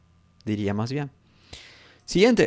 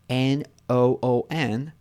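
slow spelling; slower than usual. Shown as a demonstration. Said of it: "se deletrea N O O N".

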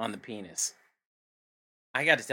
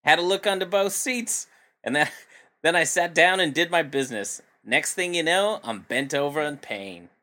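put-on Australian accent; 3 semitones higher than usual. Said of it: "Australian accent".

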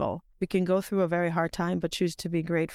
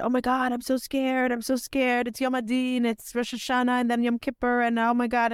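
retold fright; 3 semitones higher than usual. Telling her friend she's so scared, mildly panicky. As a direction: play back a mild fluster, one worry after another.

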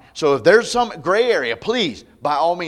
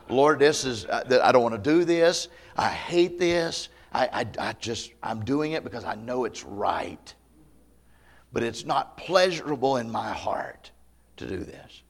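sorrowful prayer; 4 semitones lower than usual. Retold or imitated. A parent praying before disciplining a child, sorrowful. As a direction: pray it with a heavy heart. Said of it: "You go in there and you say".

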